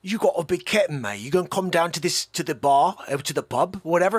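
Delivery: casual mock English accent. Shown as a demonstration. Host showing an allowed accent, mock English accent. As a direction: slip into a put-on English accent. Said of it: "I can do an English accent".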